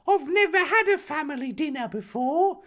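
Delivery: high, giggling delight; laughing Harry. Acted. Harry gushing about family dinner, high and laughing. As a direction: laugh through it, thrilled.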